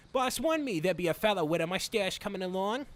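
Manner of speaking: put-on henchman accent, possibly Irish; reworked attempt at an Irish accent; second-try accent. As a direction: play a cartoon henchman with a would-be Irish accent. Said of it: "I think that's more so it".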